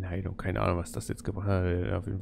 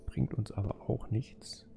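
whispering; 5 dB quieter, slower than usual. Real, not acted. Muttering to self while looting.

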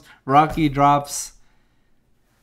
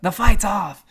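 gruff voice; 6 semitones higher, 3 dB louder than usual. Retold or imitated. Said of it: "He's like".

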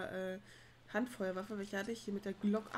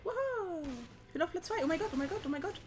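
shrieking jackpot winner; 7 semitones higher, much faster than usual. Real, not acted. Excited win, second place.

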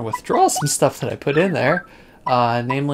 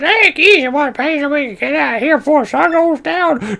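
higher, pushy kid voice mimicked by the old man; impatient kid; 12 semitones higher, 4 dB louder than usual. Old Koopa retelling the kid at the shop, high impatient kid voice. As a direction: mimic the rude kid in line behind him. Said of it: "The kid behind me said".

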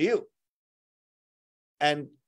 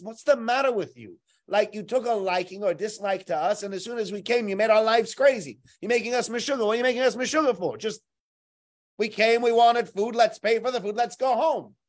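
higher, agitated complaint; indignant protest; 5 semitones higher than usual. Acted. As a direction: raise it up in frustration. Brother protests to the viceroy.

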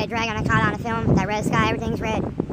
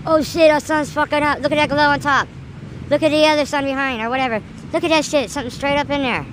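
excited; 7 semitones higher, 7 dB louder than usual. Real, not acted. Excited at second sun.

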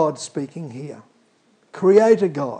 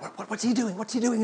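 soft, higher puzzled murmur; hushed wonder; 3 semitones higher, 8 dB quieter, faster than usual. Retold or imitated. Silent crowd murmuring about Jesus, hushed. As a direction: wonder under your breath.

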